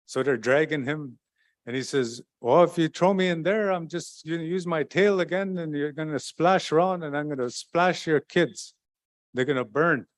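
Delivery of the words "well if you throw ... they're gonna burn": trickster warning. Acted. Mikinak threatens the old ladies.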